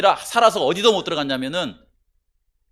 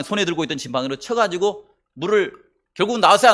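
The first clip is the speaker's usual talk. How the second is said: normal talking voice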